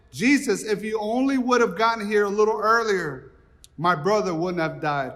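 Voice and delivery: a hint of reproach to Jesus; lightly voiced grieving accusation; mild confronting. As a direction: Martha meeting Jesus on the road, reproachful. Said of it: "Martha's running out, just confronting".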